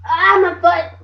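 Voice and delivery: loud pained yelp; pained cry. Real, not acted. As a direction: cry out over a hurt foot. Hurt child bursts in.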